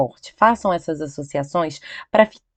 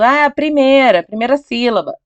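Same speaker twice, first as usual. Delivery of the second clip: lightly acted student blurting an answer, higher pitch; mock student answer; 5 semitones higher than usual. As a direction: mildly imitate a learner guessing, pitched up. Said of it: "Se você continuar falando". (imitando de leve um aluno respondendo)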